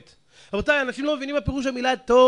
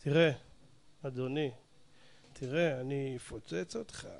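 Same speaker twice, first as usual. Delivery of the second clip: anger attempted softly; 7 semitones lower, 8 dB quieter than usual. Shown as a demonstration. Preacher testing anger at low volume, softly spoken threat. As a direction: threaten in a hushed, gentle voice so it falls harmless. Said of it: "תנסו לכ-, לכעוס שאתם מדברים בלחש".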